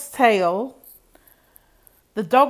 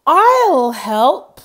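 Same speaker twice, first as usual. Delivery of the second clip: higher, louder call to her husband; wife calling out; 5 semitones higher, 8 dB louder than usual. Acted. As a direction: call over eagerly to lend a hand. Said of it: "she called".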